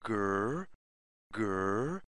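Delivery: a lightly voiced bear growl for kids. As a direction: growl it low like a friendly bear. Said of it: "makes the sound".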